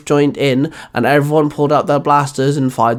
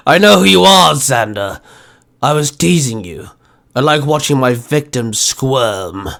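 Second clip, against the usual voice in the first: chuckling. Acted. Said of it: "Ursa chuckled".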